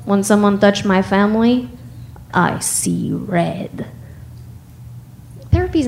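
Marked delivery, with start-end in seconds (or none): 0.0-3.9 put-on Russian accent. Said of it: "My dad said".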